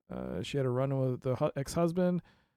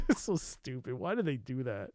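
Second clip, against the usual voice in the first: ordinary talk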